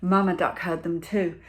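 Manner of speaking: ordinary delivery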